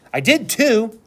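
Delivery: put-on high, loud, defiant little girl; belligerent. A narrator's reading. Little sister insisting she saw fireworks, belligerent. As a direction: stand up for yourself, stiff and stubborn. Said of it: "she said belligerently".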